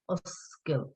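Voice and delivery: OSCAIL split into two beats, os-kil; two syllables. Shown as a demonstration. Teacher showing Richard two syllables, separated beats. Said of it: "two syllables".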